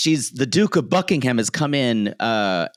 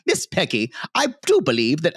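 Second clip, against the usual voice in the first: put-on mid-Atlantic accent; 4 semitones higher than usual. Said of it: "his affected mid-Atlantic accent".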